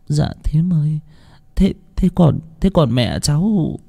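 hesitant, high stammering question. A narrator's reading. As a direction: falter over the words, scared. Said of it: "cô ấp úng".

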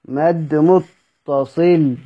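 مد متصل said very slowly, each word spelled out; a teacher giving the answer word by word. Shown as a demonstration. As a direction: lay out مد متصل slowly for the class. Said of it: "المد ده نوعه إيه يا شباب؟".

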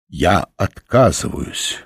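slow, solemn refusal. Acted. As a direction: declare it gravely, slowly. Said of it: "торжественно заявил Оренгороса".

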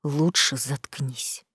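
low, soft, slow menace repeated; muffled threat. Acted. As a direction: press the threat quietly again. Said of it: "пригрозил Саид глухим голосом".

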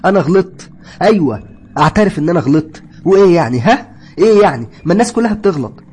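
loud outcry. Acted. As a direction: shout into the tunnel, admitting fault. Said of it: "وبتقول بصوت عالي".

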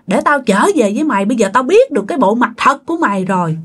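husband berates wife, retold with mild anger; retold cursing. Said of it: "thằng Phước nó mới chửi".

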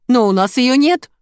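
plaintive squeak. A narrator's reading. Pharmacist pleading she has no such drug, plaintive squeak. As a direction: rise helplessly to the end. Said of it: "жалобно пропищала Катя".

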